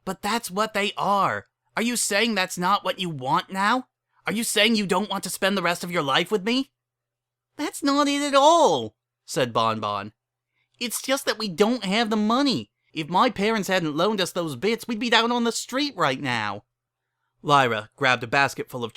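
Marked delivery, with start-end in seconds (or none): 0.0-6.7 hurt, angry Lyra. Acted. Lyra reproaching her fiancée, high and hurt. 7.6-9.0 very high, louder pleading cry; Bon Bon pleading. Acted. Bon Bon pleading with angry Lyra, very high. 10.8-16.6 high, anxious pony voice; explain, frightened; Bon Bon, anxious. Acted. Bon Bon explaining money trouble, high and anxious.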